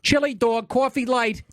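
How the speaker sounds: high-pitched mock New York accent; New York accent impression, called out high. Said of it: "That is a New York accent".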